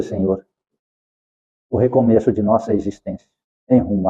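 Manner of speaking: a gentle spiritist prayer, each Senhor softened; closing prayer. Acted. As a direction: pray humbly with eyes closed, thanking the Lord.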